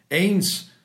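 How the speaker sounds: sung-out little clock voice; pocket watch chiming. A narrator's reading. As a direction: chime the hour like a little watch. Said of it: "sagte auch seine Taschenuhr".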